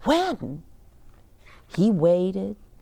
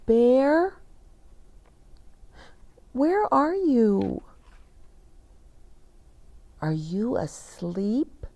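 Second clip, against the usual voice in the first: put-on calling child; 6 semitones higher than usual. Boy calls to missing Bear.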